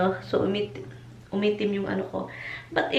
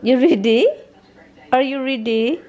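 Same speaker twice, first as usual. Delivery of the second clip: excited pet talk; 3 semitones higher, 7 dB louder than usual. Real, not acted. Asking the dogs.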